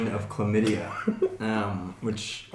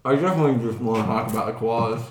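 talking through a mouthful of pizza; words round a bite of food; mouth full; faster than usual. Real, not acted. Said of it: "my mouth is just full of pizza right now".

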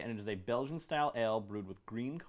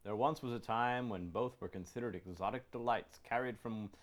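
label read-aloud. Real, not acted. Reading the beer label to friends, measured ad-copy delivery.

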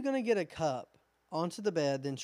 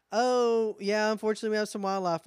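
apologetic staff; 6 semitones higher, 3 dB louder than usual. Pretend. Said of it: "How about".

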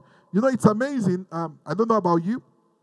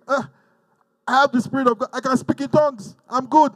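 smug believer; 5 semitones higher than usual. Retold or imitated. Complacent believer voiced.

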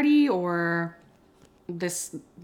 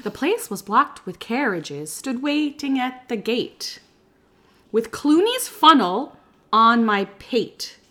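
poem reading. Acted. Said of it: "reading this as a poem".

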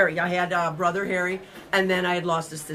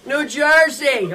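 slow, raised-voice big reveal; drawn-out announcement; 6 semitones higher, 8 dB louder, much slower than usual. Retold or imitated. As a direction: stretch it out, loud and high. Retold reveal of where she lives.

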